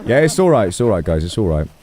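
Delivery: put-on a stammering, embarrassed old man; shy old chief turning down a date; flustered old chief. Flustered chief rebuffs flirting.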